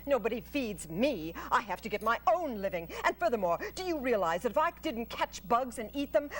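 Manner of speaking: brisk, lecturing spider; Charlotte the spider. Acted. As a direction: set the pig straight, fast.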